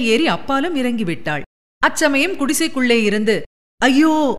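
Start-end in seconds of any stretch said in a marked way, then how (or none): 3.8-4.3 drawn-out, louder cry of terror; a piercing scream from inside the hut; mildly voiced anguished wail; long wail. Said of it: "நீடித்த பரிதாப ஓலம்".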